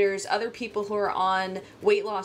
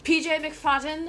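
a hint of Scottish accent on P J McFadden; Scottish accent attempt; 6 semitones higher than usual. Shown as a demonstration. Vlogger tries the name in a light Scottish accent. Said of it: "I can try to do the accent".

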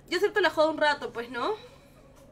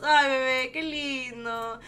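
conmovida, casi llorando; much slower than usual. Real, not acted. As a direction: melt with tearful tenderness. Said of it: "ya me estaba poniendo a llorar". (ternura conmovida, casi llorando)

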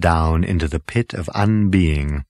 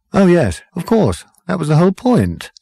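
lightly voiced schemer, higher pitch; airy confirmation; 10 semitones higher, 4 dB louder than usual. A narrator's reading. Zarniwoop confirms his scheme to Zaphod, airily. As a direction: answer lightly, pitched well up.

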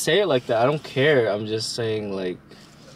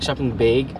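Canadian "beg" for BAG; Canadian accent. Retold or imitated. Asking partner how Canadians say it, Canadian accent. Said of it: "they go, like".

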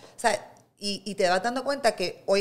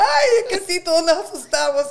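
high, louder put-on voice of the stranger; other woman's voice; 10 semitones higher, 8 dB louder than usual. Stranger in the restroom reassuring her, hammed-up high voice. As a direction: play the startled stranger big. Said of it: "Y ella".

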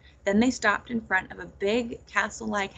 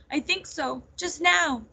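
higher-pitched upset answer; tearful; 6 semitones higher, slower than usual. A narrator's reading. Nettle confirms she found their mothers, tearful. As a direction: answer through mild acted tears. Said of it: "the tears streaming down her face".

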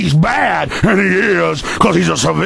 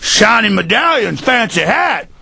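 imitating cop; 2 semitones lower than usual. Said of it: "that's an imitation of 'em".

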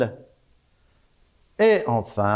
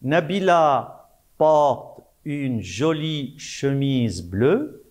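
slow, clear dictation to pupils; slow dictation reading. Shown as a demonstration. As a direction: read each word slowly for the class. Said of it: "La première phrase". (lecture lente de dictée)

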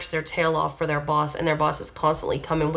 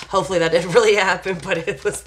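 louder, a laugh breaking mid-line; can't keep a straight face; laughing through words; 2 semitones higher, 4 dB louder than usual. Real, not acted. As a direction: still giggling at the scene. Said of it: "I'm sorry that I'm laughing".

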